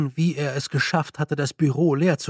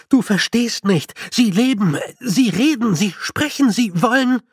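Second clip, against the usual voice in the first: higher, louder, driving insistence; agitated pleading, louder; urgent; 6 semitones higher, 5 dB louder than usual. A narrator's reading. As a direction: hammer home each phrase. Feucht urgently insists to golem.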